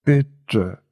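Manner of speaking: a faltering, broken bitte; hurt young man stammering a plea; stammered plea. A narrator's reading. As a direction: let the word break as he begs. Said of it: "stammelte er".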